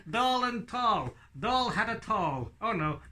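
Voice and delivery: a high, slow puppet voice chanting the words; squeaky puppet. Acted. Puppet repeating the demo words.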